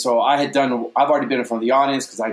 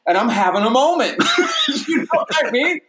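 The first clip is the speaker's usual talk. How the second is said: emotional laughter; 13 semitones higher than usual. Real, not acted. Overwhelmed by lit lightsaber.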